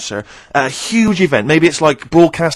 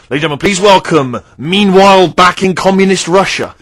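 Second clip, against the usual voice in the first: arena announcer; 4 semitones higher, 4 dB louder than usual. Retold or imitated. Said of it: "Ladies and gentlemen, will you please welcome".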